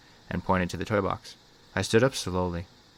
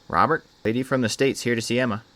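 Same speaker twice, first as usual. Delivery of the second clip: louder, higher narrated yell; raised-voice call over the shoulder; 5 semitones higher, 5 dB louder than usual. A narrator's reading. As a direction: call out to someone in the house. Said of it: "she yelled over her shoulder".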